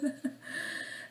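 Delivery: soft real giggle; quiet breath of laughter after talking. Real, not acted. Vlogger amused by her soap remark, soft giggle. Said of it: "désolée si je ris un petit peu pour rien".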